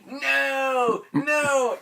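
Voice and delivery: high, loud desperate no; pleading no. Retold or imitated. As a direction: beg him to stop, yelling. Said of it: "And Josh is just like".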